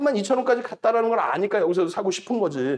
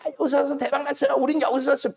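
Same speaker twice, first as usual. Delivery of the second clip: imitating bragging liars; 5 semitones higher than usual. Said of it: "뻥쟁이들".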